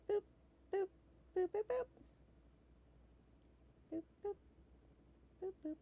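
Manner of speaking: light, high rising boops; little boop noises. Real, not acted. Player sketches a loopy pixel A, little high boops.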